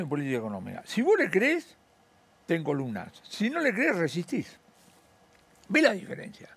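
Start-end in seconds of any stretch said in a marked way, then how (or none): 5.7-6.5 hushed, confiding aside; whispered emphasis to the host. Real, not acted. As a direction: lean in and whisper the point. Economist drives point home quietly.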